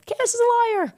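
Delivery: very high mocking squeal; mocking critics. Mocking critics who call her a liar, high squeal. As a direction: squeak it like a taunting child. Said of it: "They all said".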